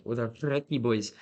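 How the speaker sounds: slow mock Scottish, rolled R attempted. Retelling Scots running up to him, imitated Scottish accent. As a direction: imitate a Scot rolling the R in Recce. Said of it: "They rolled their R".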